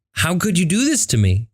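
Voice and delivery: high, wounded plea; hurt disbelief. Retold or imitated. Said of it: "this immense sadness".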